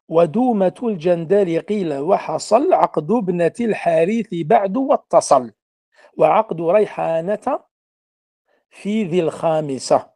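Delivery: measured reading of Arabic didactic verse; verse recitation. Real, not acted. Teacher reading the verse to be explained, verse recitation. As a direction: read the poem line out in a lightly lilting cadence.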